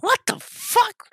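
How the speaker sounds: very high, drawn-out incredulity; comic re-enacted shock; baffled disbelief. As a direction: squeal it slowly in retold bewilderment. Baffled reaction to mom's word.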